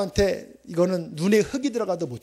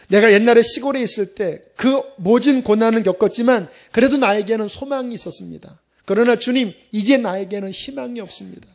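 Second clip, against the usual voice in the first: desperate prayer; 4 semitones higher, 6 dB louder than usual. Retold or imitated. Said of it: "뭐라고 기도했냐면".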